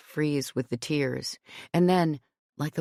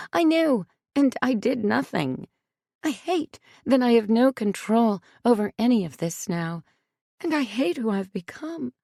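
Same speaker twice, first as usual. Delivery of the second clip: higher and louder, building to a cracking cry; a mother pouring out self-blame, in anguish; raw anguished outburst; 8 semitones higher, 4 dB louder than usual. A narrator's reading. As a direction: let the dam burst, rising as she goes. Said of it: "the dam that had broken within her".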